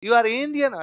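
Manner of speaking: put-on slow, high Russian accent. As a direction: ask it like an excited Russian stranger. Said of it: "कोई Russian ने आपको पहचान लेगा".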